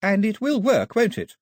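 nervous Daphne. A narrator's reading. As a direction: brave face over a shaky voice. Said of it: "keep the wobble out of her voice".

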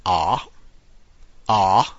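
ah said open and clear; the letter A as a broad ah; Italian letter A. Shown as a demonstration. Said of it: "The letter A is pronounced".

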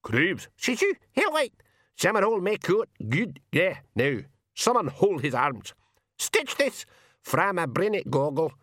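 high, squawking Scots pixie brawlers; shrieky high-pitched pixie brogue; screaming pixies. A narrator's reading. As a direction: squeal and jabber like tiny pixies spoiling for a fight. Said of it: "a scream of".

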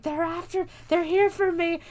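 high-pitched imitation of a panicked woman; mock panic. Mrs. Deagle fleeing the gremlins, mock panic. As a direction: wail it in hammed-up alarm.

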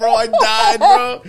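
high, loud laugh through the words; real laughter over the words; laughing hard. Real, not acted. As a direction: crack up while saying it. Laughing after the joke.

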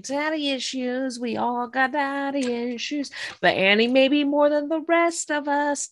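singsong teasing. Acted. Mock reaction to the scene.

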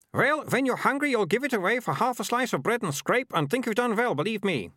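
high-pitched haggling man, pressing the deal; high-voiced dealer, scornful and insistent; pushy street buyer. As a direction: haggle hard in a high put-on voice.

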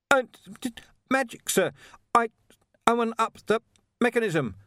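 high-pitched shout in fragments; broken shout. A narrator's reading. Ponder answers over sound-destroying silences, shouting. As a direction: shout over noise that swallows words. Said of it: "Ponder shouted above the sound-destroying silences".

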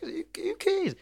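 high airy whisper; shrugging it off in a whisper. Real, not acted. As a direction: whisper it like a secret. Playful aside.

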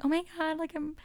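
lightly mocking dramatic self; mock emotional. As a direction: ham up being emotional. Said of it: "I was all like".

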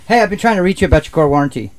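mock spam caller. Shown as a demonstration. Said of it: "answering that way".

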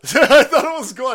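high, loud laughing take on the line; laughing repeat. Real, not acted. Repeats it laughing, much higher.

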